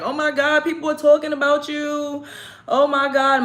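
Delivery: high, mock frantic mother; panicked mother scolding her daughter about the video, mock frantic; imitating crying mother. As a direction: play the panicked mom, pitched high. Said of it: "she was crying like".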